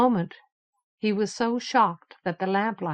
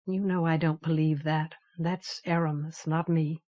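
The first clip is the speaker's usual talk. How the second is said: muffled voice; 3 semitones lower, 4 dB quieter than usual. Acted. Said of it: "In a muffled voice he said".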